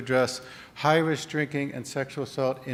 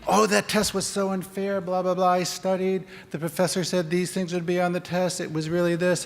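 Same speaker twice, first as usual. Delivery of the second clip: complaining student; 5 semitones higher than usual. Acted. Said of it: "acted venting student".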